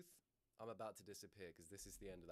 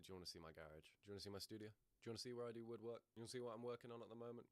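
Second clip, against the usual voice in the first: a hint of a dad showing off his hobby; imitating a dad; faster than usual. Mimicking a dad offering to show off his studio, lightly voiced. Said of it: "That is such a dad thing to be like".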